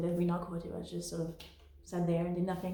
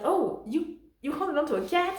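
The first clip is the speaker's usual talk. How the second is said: higher-pitched, imitating incredulous onlookers; mock amazement; 7 semitones higher than usual. Onlookers spotting a live cat in the cabin, mock amazement. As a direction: retell their disbelief in a raised voice.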